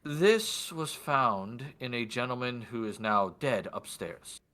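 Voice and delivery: lightly voiced noble, dropping away at the end; measured, understated revelation; lordly man in white. Lord telling guard of a death, lightly acted measured voice. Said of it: "do my best for his voice".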